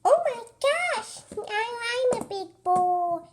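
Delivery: high, loud thrilled cry; excited big boy. Pretend. Kid thrilled to be suddenly grown, squealing loudly. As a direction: squeal with glee at being big.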